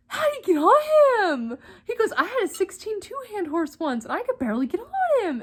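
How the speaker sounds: put-on cowboy accent. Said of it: "I'm not making the accent up".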